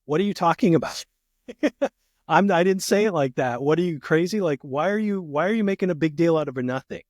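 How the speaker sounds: mock-defensive dismissal of his wife; defensive scoff. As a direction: wave her off as overreacting. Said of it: "and I say".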